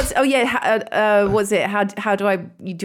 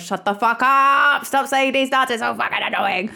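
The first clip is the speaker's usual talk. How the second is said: mock-exasperated plea, raised and stretched; exasperated outburst; 5 semitones higher than usual. Telling an annoying good mate to stop, exasperated. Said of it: "I would be like, Oh my God".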